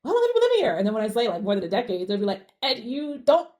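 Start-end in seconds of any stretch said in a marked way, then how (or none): 0.1-0.8 high, loud nosy question; hammed-up inquisitive stranger; mock curiosity. Retold strangers' next nosy question. 2.6-3.5 higher, louder incredulous question; hammed-up incredulity; mock disbelief. Retold strangers' disbelief at her accent.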